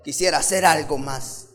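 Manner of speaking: high, loud, rushed angry complaint; imagined Martha storming out of the kitchen, angry. Retold or imitated. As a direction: wave the ladle and demand help. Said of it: "Marta está enojada".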